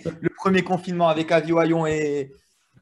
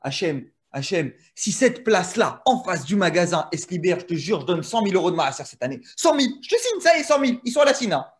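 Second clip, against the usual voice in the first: put-on Sentier accent. Desperate driver begging Hachem for a parking place, Sentier accent. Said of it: "C'est vrai que t'as eu l'accent".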